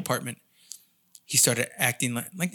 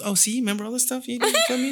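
laughing mom voice; 9 semitones higher than usual. Retold or imitated. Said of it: "My mom goes".

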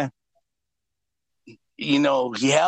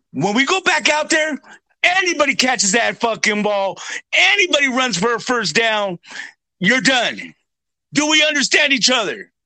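coach threat; 5 semitones higher than usual. Retold or imitated.

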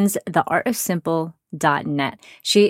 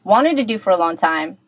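tin can sound. Real, not acted. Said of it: "so it sounds a bit like I'm in a tin can".

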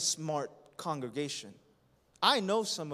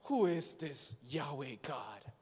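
proud Pharaoh; slower than usual. Acted. Preacher voicing Pharaoh, lightly scornful and slow. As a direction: sneer it like a proud king, lightly. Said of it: "respond just like Pharaoh".

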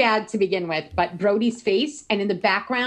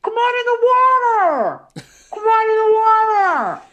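high, louder call across the water; hammed-up beckoning call, pitched up; 13 semitones higher, 6 dB louder, faster than usual. Skinny-dipping girl calling her boyfriend into the water, high and loud.

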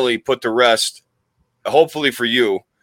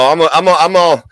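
raised, hammed-up Southern twang; put-on Southern accent; 4 semitones higher, 3 dB louder than usual. Host introducing himself and his sidekick, mock Southern accent. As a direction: lay on a rough cowboy Southern accent. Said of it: "I have a terrible South".

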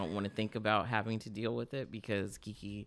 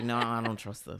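laughing through a quoted line; amused, laughing while speaking. Retold or imitated. Retold quote, laugh heard.

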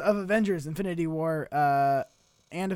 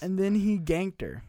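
slow deadpan sentence; slower than usual. Shown as a demonstration. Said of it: "Use it in a sentence".

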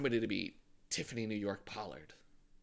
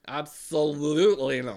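sassy camp; 3 semitones higher, 8 dB louder than usual. Shown as a demonstration. Drunk camp catchphrase.

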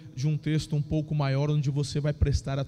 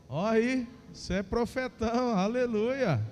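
playful hyped-up preacher banter; rally the church, grinning and high; roaring rallying speech; 4 semitones higher than usual. Real, not acted. Preacher hyping the congregation.

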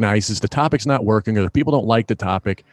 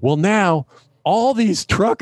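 ordinary delivery

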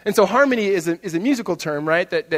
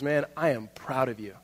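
lower, softer, sincere; heartfelt pride; 5 semitones lower, 8 dB quieter than usual. Acted. Football legend to the player who broke his record, heartfelt. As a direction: tell him quietly, man to man. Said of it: "he looks at Devin Hester and he goes".

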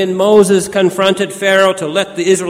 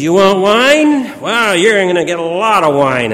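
emphatic Jesus voice; 2 semitones higher, 6 dB louder than usual. Retold or imitated. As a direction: boom it out like a generous showman. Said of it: "And Jesus simply says".

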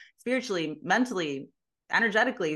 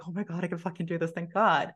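relieved exclaim. Retold or imitated. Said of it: "a celebrating of relief".

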